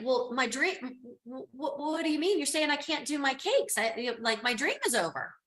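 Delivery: mock distress. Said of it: "It's like".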